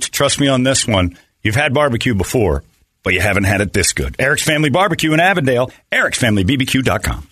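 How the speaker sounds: upbeat radio ad read. Acted. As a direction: sell it like a sponsor spot. Host reads a sponsor ad.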